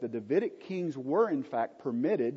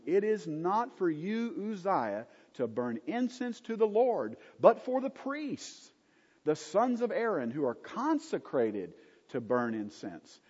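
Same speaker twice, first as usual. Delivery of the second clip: stern rebuke; 5 semitones higher than usual. Acted. Priests rebuke the king Uzziah.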